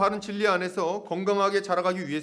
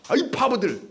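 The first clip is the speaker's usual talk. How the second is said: higher mock-angry outburst; comic burst of exasperation; exasperated inner thought; 5 semitones higher, 3 dB louder than usual. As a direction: blurt out what he secretly thinks of them. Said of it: "속마음은 그렇지 않죠".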